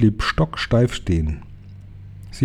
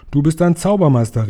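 excited cry; 7 semitones higher, 5 dB louder than usual. A narrator's reading. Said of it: "rief meine Großmutter".

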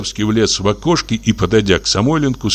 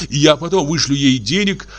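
high, buoyant, happy voice; joyful; 10 semitones higher than usual. Acted. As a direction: lift up with sudden joy. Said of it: "прилив радости".

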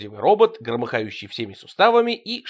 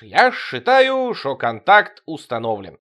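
smug satisfaction; 6 dB louder, slower than usual. Acted. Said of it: "довольно резюмировал Тимоха".

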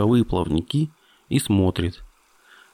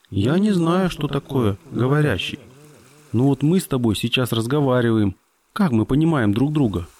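lightly voiced curious dolphin; a hint of a childlike dolphin; young dolphin voice; 3 semitones higher than usual. Dolphin's voice held.

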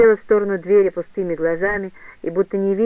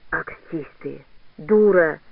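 angry shout; 4 semitones lower, much slower than usual. Acted. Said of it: "опять сердито выкрикнула старуха".

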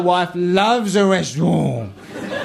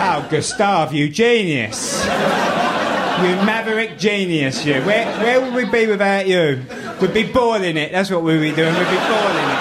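mock adoring praise; 3 semitones higher than usual. Sarcastic praise of chef.

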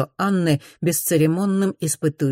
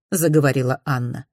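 ordinary delivery, nothing marked

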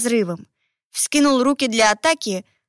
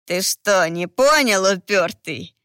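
creaky voice; 3 semitones lower, slower than usual. Acted. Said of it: "проскрипел он".

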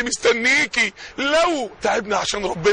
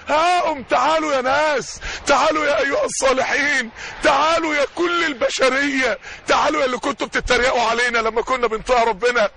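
triumphant calling out. Acted. Believer calling the mockers to see his record, triumphant. Saved believer calls everyone to come.

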